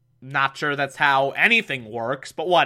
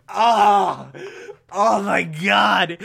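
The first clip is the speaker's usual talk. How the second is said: side stitch; 2 semitones higher, much slower than usual. Retold or imitated. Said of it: "Robin gets a side stitch and it's visibly like".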